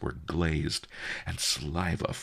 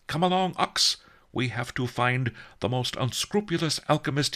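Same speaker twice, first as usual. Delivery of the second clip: higher, cheerful master giving orders; brisk satisfaction in a raised voice; happy; 8 semitones higher, 3 dB louder than usual. A narrator's reading. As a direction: happily issue the errands, pitch lifted. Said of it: "Master Li said happily".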